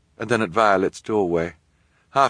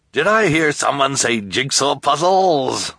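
Jerome's voice; 8 semitones higher, 5 dB louder, slower than usual. Acted. Jerome's cheerful character voice.

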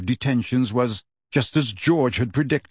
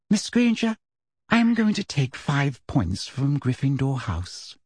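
sweetly stern. Acted. Umbridge takes points.

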